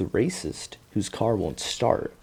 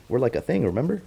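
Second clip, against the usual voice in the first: clingy daughter; 6 semitones higher, faster than usual. Retold or imitated. Acting the clingy reunited daughter.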